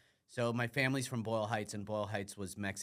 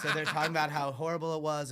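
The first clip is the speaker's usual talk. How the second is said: laughing while talking; 7 semitones higher, 6 dB louder than usual. Real, not acted. Laughing as the grandma story starts.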